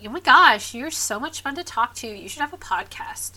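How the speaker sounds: loud, gushing fan voice; gushing excitement. Retold or imitated. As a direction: gush like an overexcited friend. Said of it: "Not necessarily in that tone".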